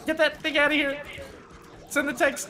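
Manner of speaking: high, loud frightened shouting; panicked yelling. Real, not acted. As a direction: scream it out in real panic. Panic at the monster duck.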